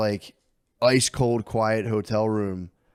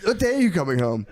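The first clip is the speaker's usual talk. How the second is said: put-on little kid asking; 8 semitones higher, 3 dB louder than usual. Son Lemaire on FaceTime.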